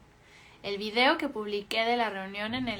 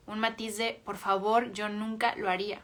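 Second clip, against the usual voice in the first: dismissive tone. Shown as a demonstration. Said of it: "Emana rechazo y crítica".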